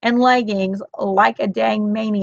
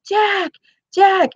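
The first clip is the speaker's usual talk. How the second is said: high calling out a name; two-note call across the yard; 10 semitones higher than usual. Retold or imitated. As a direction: call across the street to the neighbor. Yelling neighbor's name across street.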